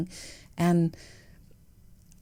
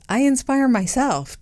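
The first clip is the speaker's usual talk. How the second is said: higher, playful self-praise; mock self-praise; 8 semitones higher, 3 dB louder than usual. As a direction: brag jokingly about yourself. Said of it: "I'm very inspiring, right?".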